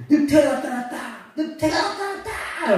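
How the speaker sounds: high, sing-song cry of wolf; mock shout. Shepherd boy teasing villagers, sing-song shout. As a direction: call out like a bored shepherd boy. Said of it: "이렇게 소리를 지른 거죠".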